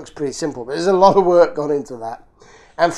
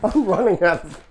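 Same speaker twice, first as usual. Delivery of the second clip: laughing at himself; 4 dB quieter than usual. Real, not acted. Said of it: "I'm running out of energy here".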